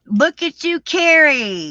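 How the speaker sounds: high, loud, delighted praise; bursting with pride for a viewer; excited cheer. Real, not acted. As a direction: cheer her on with real glee.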